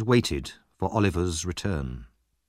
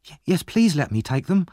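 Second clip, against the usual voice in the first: put-on eager, higher-pitched boy with a stumbling start; delighted; 7 semitones higher than usual. A narrator's reading. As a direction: jump at the chance to help. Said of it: "delighted to be of use".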